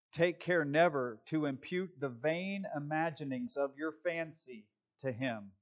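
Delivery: measured read-aloud, settling at the end; solemn quote reading. Acted. Pastor first reads Spurgeon's warning to the congregation, measured. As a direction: read it evenly and deliberately.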